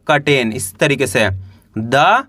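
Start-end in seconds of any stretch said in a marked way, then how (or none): 0.1-0.5 curtain said "ka-ten", first vowel an a; U read as आ. Shown as a demonstration. Teacher explaining the silent letter, curtain said "katen". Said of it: "आ का उच्चारण निकलेगा".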